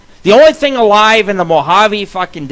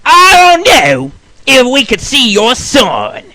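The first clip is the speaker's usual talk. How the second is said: nurse's refusal; 6 semitones higher, 4 dB louder, slower than usual. Retold or imitated. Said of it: "she says to me".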